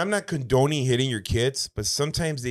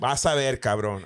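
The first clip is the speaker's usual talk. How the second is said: laughing threat; 5 dB louder than usual. Retold or imitated. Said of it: "somebody's white mom saying".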